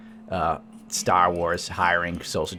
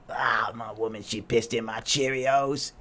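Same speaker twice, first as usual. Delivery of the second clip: a light put-on old bluesman drawl, slowed; blues singer impression; slower than usual. Podcaster hamming up a blues lament, lightly voiced. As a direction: lament your woman like a bluesman. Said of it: "pretending I'm a black jazz musician".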